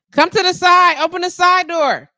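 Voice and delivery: high, loud call toward the door. Real, not acted. Directing a visitor to the side door, calling out. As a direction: call out so they hear it outside.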